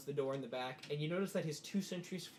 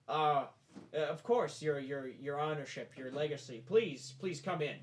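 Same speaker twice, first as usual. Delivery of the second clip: hesitant, slowing, fumbled honorifics; flustered deference; 4 dB louder, slower than usual. Acted. Innkeeper admitting an honored visitor, flustered deference. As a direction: stumble politely into welcoming an important guest.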